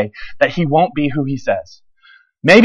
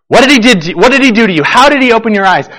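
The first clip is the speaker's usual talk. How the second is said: interrogating Pharisees; 5 semitones higher, 3 dB louder than usual. Acted.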